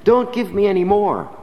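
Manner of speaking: lightly voiced mother calling out to stop; preacher voicing the mother crying out at the gift, mildly loud. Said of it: "the poor woman cried".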